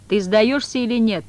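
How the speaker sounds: loud, menacing demand; terrible shout. Acted. Woland demanding the cat surrender, terrible shout. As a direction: shout it fearsomely. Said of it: "прокричал страшным голосом Воланд".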